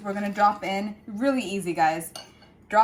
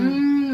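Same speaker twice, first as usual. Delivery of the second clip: appreciative "mm"; 5 semitones higher, 8 dB louder than usual. Real, not acted. First bite of the food.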